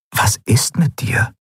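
breathy whisper, slow; whispered thought. Acted. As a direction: think it in a whisper. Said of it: "dachte Kai".

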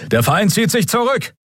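high, crisp officer voice; officer's report. A narrator's reading. First officer reporting the enemy's retreat, crisp. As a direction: report it up the chain.

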